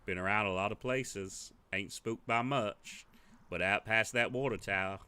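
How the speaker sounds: lightly voiced gruff drifter, slow; a slow, wary drifter warning the player; gruff stranger. Player hears a drifter's warning, lightly gruff.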